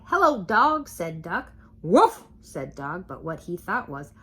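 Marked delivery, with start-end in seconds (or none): 0.0-0.9 much higher, louder duck greeting; cheery duck. A narrator's reading. Duck riding past the farm animals, high cheery greeting. 1.8-2.2 loud bark of a woof; dog woof. A narrator's reading. Dog answering Duck, loud woof.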